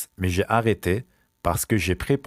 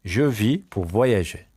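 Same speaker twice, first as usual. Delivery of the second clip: measured, slow French model sentence; slow repeat; much slower than usual. Shown as a demonstration. Teacher repeats a travel sentence for pupils, slowly. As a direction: spread the words out for learners.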